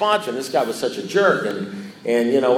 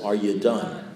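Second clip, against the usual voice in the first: Are you done said lower, quieter and more pointed; insistent repeat; 5 semitones lower, 4 dB quieter, slower than usual. Retold or imitated. Sponsor quietly insists the ranting speaker really is done. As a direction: press Are you done a second time, low and meaning it. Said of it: "No, no, Russ".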